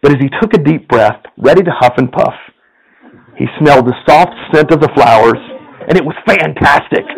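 lively storyteller reading a fable to the congregation; story narration. A narrator's reading. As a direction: tell it like a bedtime tale, playful. Pastor reads a story aloud.

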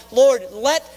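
fervent prayer cried aloud; praying out loud. Acted. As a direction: beg the Lord, leaning hard on each word. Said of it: "praying out loud".

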